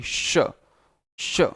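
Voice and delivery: श with tongue against the palate; whistling palatal श. Shown as a demonstration. Teacher showing learners the pure palatal sound, श as a whistling palatal. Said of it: "सीटी जैसी आवाज़ भी आती है".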